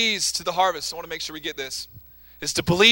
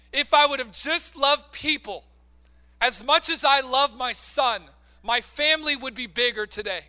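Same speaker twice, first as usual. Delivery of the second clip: grieving mother; 5 semitones higher than usual. Retold or imitated. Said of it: "she would say these words".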